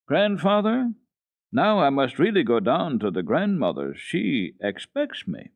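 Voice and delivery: put-on high, pleading child's voice; a small girl begging her grandfather to let her go; little Heidi, high and eager. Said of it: "Heidi's first words were".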